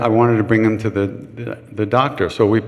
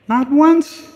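emphatic; 4 dB louder than usual. Real, not acted. Emphatic disbelief at himself.

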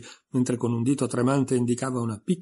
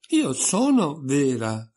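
about to cry; 4 semitones higher, 4 dB louder, much slower than usual. Acted. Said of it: "replicò Alice e scoppiò a piangere".

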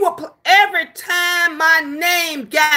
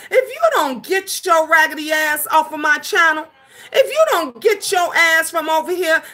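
raised, heated warning to get off her channel; angry telling-off; 3 semitones higher than usual. Real, not acted. Streamer yelling at trolls to leave her channel, angry. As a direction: run them off, fired up.

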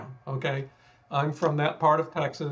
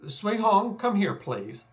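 polite request; 5 semitones higher than usual. Shown as a demonstration. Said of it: "That's one way of saying it".

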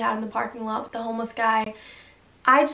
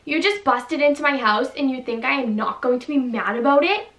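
louder, furious homeowner; angry; 5 dB louder than usual. Acted. Girl yells at the man in her house, furious. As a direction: tell the intruder off hard. Acted quarrel with intruder.

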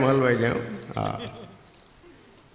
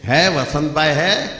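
Hyderabadi Hindi accent; 4 semitones higher, 5 dB louder, slower than usual. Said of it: "ઓલો ભાઈ હૈદરાબાદ બાજુથી આવેલો".

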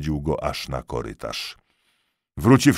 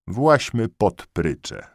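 command; 6 semitones higher, 3 dB louder, much slower than usual. A narrator's reading. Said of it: "zakomenderował Kania".

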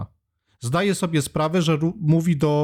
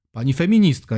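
louder, ironic on "feministka"; sarcastic; 4 dB louder than usual. Shown as a demonstration. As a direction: stress "feministka" with mock respect. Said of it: "jak ona się sama nazywa". (sarkastycznie "Pani feministka")

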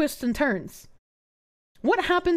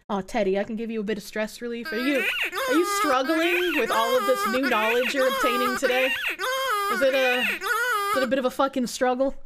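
mock comforting.

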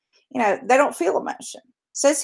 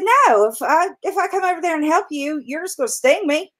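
lightly raised voice, a touch suspicious; a lightly voiced cautious frog; wary frog; 6 semitones higher than usual. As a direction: turn down the scorpion warily. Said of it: "And the frog said".

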